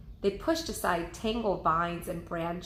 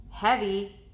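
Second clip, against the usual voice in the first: warning; 5 dB louder than usual. Acted. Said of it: "Annie warned".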